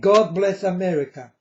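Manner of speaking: a blunt demand; commanding tone. Shown as a demonstration. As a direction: say it as an order to God, not a request. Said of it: "sounds in my ears like a command".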